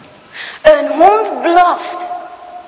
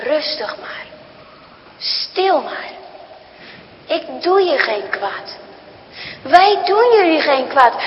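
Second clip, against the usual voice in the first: put-on soothing old man; 3 dB quieter than usual. Old man reassures frightened children.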